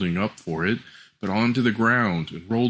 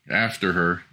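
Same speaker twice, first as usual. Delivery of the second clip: plain reading voice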